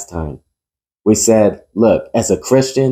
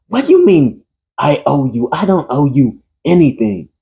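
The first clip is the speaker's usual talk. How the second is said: angry retort, pitched up; acted anger, moderately raised voice; 4 semitones higher than usual. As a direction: push back in indignant disbelief. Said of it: "Alex is angry".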